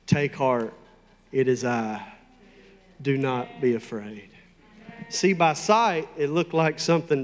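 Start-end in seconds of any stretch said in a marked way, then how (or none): 0.1-4.3 low, measured reassurance; steady them in a lower, unhurried voice; calm reassurance. Acted. Jesus speaking to frightened disciples in a storm, calm. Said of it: "Only Jesus talks like this".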